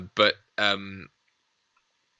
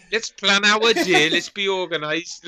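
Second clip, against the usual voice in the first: slightly raised, comic Geordie organiser; Sarah Millican; 4 semitones higher than usual. Pretend. Nazi planning the day, mock Geordie voice. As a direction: play a chirpy Geordie Nazi. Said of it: "Nazis played by Sarah Millican".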